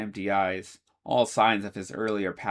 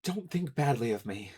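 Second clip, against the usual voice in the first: expressionless; 5 semitones higher than usual. Acted. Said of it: "his voice devoid of expression".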